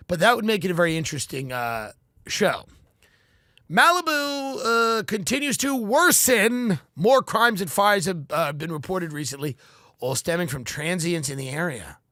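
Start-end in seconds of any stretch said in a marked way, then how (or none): 3.7-12.0 mock news read. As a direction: read it like a local TV news report. Parodies a news anchor.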